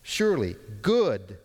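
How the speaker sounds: GOOD set apart and firmly stressed; emphatic GOOD. Shown as a demonstration. Preacher restates the verse for the congregation, GOOD emphatic. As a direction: lean on GOOD as its own beat. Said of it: "It's emphatic".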